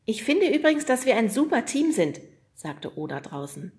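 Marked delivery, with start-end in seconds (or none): 0.1-2.2 lightly voiced Oda. Oda's voice in story.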